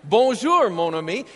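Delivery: a preacher's clumsy American take on French; American-accented French. Shown as a demonstration. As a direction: overdo the American accent on "Bonjour, mon ami". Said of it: "they know I'm not from France".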